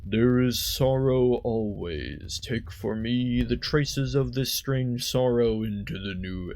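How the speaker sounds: slow, lightly voiced dragon; terrible dragon voice. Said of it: "that was a terrible dragon voice".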